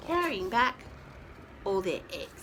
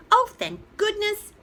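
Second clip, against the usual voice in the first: higher, louder relieved sigh of a chick; 9 semitones higher, 5 dB louder than usual. Acted. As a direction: sound relieved and glad. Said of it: "he said".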